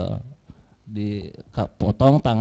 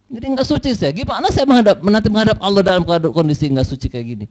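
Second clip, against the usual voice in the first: higher, indignant mock complaint; retold angry complaint; 4 semitones higher than usual. Dead woman complains to the grave robber, mildly angry. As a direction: lament being left unclean, with reproach. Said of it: "datang marah-marah".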